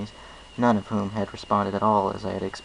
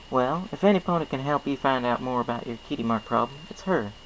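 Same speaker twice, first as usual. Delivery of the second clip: folksy farm pony, friendly and sure; Applejack; 4 semitones higher than usual. Acted. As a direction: play a cheerful country mare with a twang. Applejack's voice, first take.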